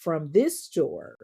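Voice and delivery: "this" drawn out and emphasized for irony; stress on THIS. Shown as a demonstration. Narrator pointing out the key word, stressing "this". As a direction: lean slowly on "this". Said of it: "being the key word".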